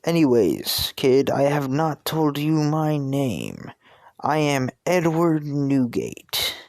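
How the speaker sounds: slow, grand self-introduction; Whitebeard. Acted. Pirate reveals his name to the kid, slow stately voice. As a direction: announce yourself ponderously, drawing out each word. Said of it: "it's just a deep".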